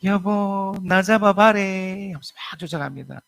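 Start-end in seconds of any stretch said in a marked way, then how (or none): 0.0-2.1 higher, slow Gyeongsang wife playing coy; awkward Gyeongsang-accent flirt; Gyeongsang wife mimicking. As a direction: Gyeongsang accent trying a cute call. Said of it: "아내분처럼".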